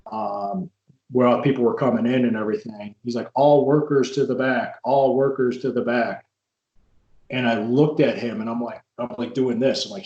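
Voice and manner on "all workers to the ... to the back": lightly voiced show announcer; imitated announcer. Guy announcing as people come in, lightly imitated announcer call. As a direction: call it out slowly like an announcer, mildly. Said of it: "this guy was announcing".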